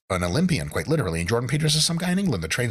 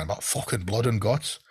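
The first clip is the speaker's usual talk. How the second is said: mock British accent, pitched up; hammed-up British lifter talk. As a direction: put on a rough British accent. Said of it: "said cool shit in a British accent".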